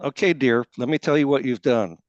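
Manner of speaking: imitated Texas accent. Retelling what Cece said to him on the phone, in Cece's Texas accent. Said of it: "who has this wonderful Texas accent".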